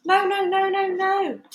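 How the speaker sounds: high, loud panicked pleading; frantic calling out. A narrator's reading. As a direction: beg the gunmen to stop, full voice. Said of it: "called out Mister and Missus Gregg".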